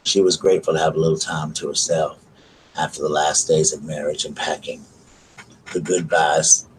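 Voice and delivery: calm, even reading of a novel; story narration. Acted. Streamer reads a book excerpt to her viewers, calm narration. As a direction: read the passage aloud, steady and unhurried.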